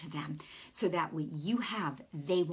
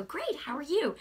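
high, friendly retold greeting; real pleasant; 7 semitones higher than usual. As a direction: greet a shop clerk pleasantly, pitch lifted. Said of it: "real pleasant".

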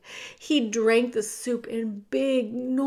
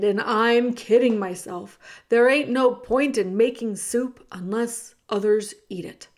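loud, urgent cook shooing the mouse; Cook's rough voice; 6 dB louder than usual. Acted. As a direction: push him to run, now. Cook laments to herself.

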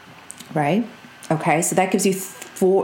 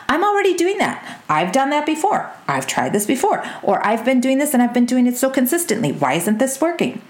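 mock exasperation, pitched high at the start; imitating her own frustrated, stuck inner voice; exasperated self-talk; 6 semitones higher than usual. Coach replaying her stuck thoughts to listeners, mock exasperated.

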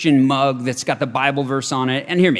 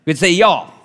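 imitating a friend's Southern twang; Southern y'all; 3 dB louder, faster than usual. Preacher playfully borrows a friend's word, mock Southern accent. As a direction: lean into a put-on Southern y'all. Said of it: "Kenzie would say it like that".

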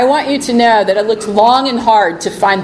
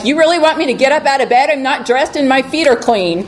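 mock reluctant whine; 3 semitones higher, faster than usual. Mocking the reluctant bride.

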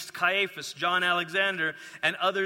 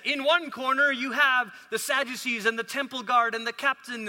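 ring announcer; 5 semitones higher than usual. Pretend. Boxing ring fight setup.

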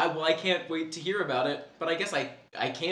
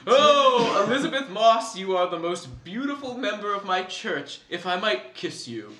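smarmy cult leader; 2 semitones lower than usual. Acted. Acting a cult leader's creepy pitch.

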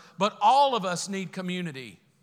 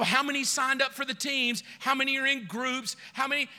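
higher, pressing roll call; mock pushy pastor; 5 semitones higher than usual. Pastor mocking himself counting sign-ups, pushy. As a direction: badger them like a pushy pastor. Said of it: "Not to go".

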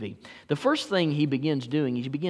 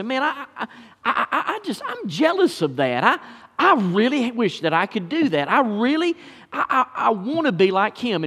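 higher, laughing, whiny envy put on for the congregation; mock jealous churchgoer; 4 semitones higher than usual. Pastor mimicking a jealous church member, laughing envy. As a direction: play the envious believer with a nervous laugh.

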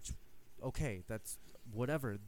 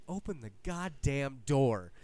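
slower, louder, stern order; stern demand; 2 semitones higher, 5 dB louder, slower than usual. Retold or imitated. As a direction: lose patience and insist. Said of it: "And he's like".

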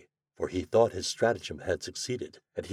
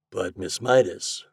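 remonstrating; 3 dB louder, slower than usual. Acted. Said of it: "remonstrated the glassblower".

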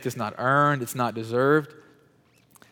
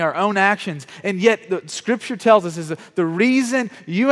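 higher, urgent preaching push; emphatic preaching; 7 semitones higher, 5 dB louder than usual. Real, not acted. Preacher challenging the congregation on how we got salvation, emphatic preaching. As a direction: press the question on the congregation.

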